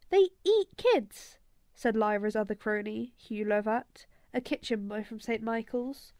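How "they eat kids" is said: much higher and louder, slow and wide-eyed; spooked kid. Acted. Hugh Lovat telling the gang the gobblers eat kids, slow and spooked. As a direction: drag it out to scare them.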